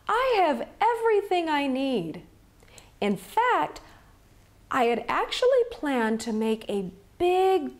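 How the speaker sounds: cheerful peddler voice. Acted. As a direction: play the sly, upbeat peddler.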